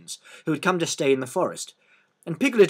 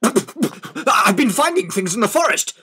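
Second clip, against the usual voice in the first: slow, higher, louder self-important tiger; 9 semitones higher, 5 dB louder, slower than usual. Acted. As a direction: announce it proudly. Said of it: "said Tigger importantly".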